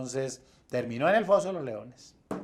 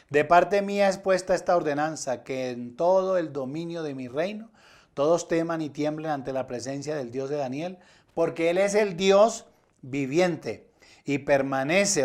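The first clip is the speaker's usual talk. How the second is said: mildly raised, emphatic scripture reading; declaimed decree; 2 semitones higher, 4 dB louder than usual. Acted. Preacher reading the king's decree to the congregation, emphatic proclamation.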